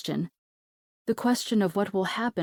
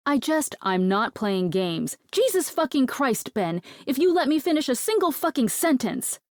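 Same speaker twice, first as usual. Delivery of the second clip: exasperated yell, pitch flying up; high furious outburst at Ben; frustrated shout; 7 semitones higher than usual. Acted. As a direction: cut through his interruptions, fed up. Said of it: "I shout".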